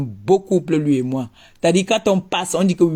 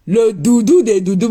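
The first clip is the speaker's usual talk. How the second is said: mocking sing-song; 4 semitones higher, 5 dB louder than usual. Mocking repeat, louder and higher.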